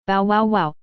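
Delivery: last "wow" hit with scorn; contemptuous stress. A narrator's reading. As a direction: lean on the final "wow" with blighting contempt. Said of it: "with an emphasis of blighting contempt on the last syllable".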